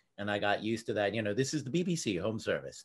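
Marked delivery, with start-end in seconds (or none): 1.4-2.9 put-on proper, old-fashioned radio announcer delivery. Recalling British TV watched as a kid, speaker quotes an announcer in a BBC announcer voice. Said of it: "It's that very BBC announcer voice".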